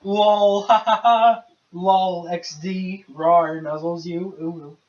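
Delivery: giggly cutesy online flirt; breathy cutesy giggly. Pretend. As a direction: read internet slang like a giggling cutie. Acting out cutesy internet talk.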